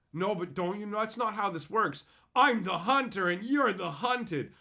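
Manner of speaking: imitating an affronted game player; mock indignant opponent. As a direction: protest like someone lost in their game. Voicing a whiny opponent in role-play.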